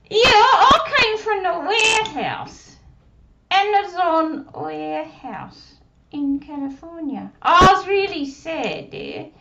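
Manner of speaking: put-on high little girl puppet voice; squeaky childlike puppet; Susie puppet voice. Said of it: "does Susie practice".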